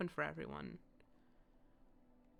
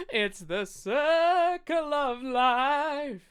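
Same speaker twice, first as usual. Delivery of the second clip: excited; 8 semitones higher, 8 dB louder, much slower than usual. Real, not acted. Excited exclamation at game scene.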